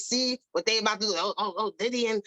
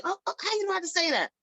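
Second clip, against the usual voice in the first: mock shock; 6 semitones higher, faster than usual. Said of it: "You like".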